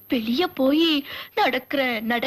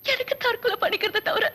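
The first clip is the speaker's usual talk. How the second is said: mock tearful pleading; patient weeping to the doctor about her illness; crying. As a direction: sob through the words, hammed-up. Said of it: "அழுவாதீங்க".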